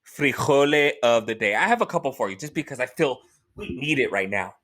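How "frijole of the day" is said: announcer intro. Acted. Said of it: "señoras y señores".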